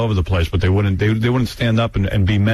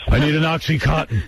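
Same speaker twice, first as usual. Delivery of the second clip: Limbaugh impression, laughing; 8 semitones higher than usual. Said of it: "Limbaugh ... deep sigh".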